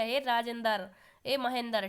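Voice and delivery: राजेंद्र and महेंद्र ending "-dar"; forced cluster-splitting. Shown as a demonstration. Teacher imitating a child calling names, राजेंद्र ending "-dar". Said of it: "जोर लगा करके बोलना".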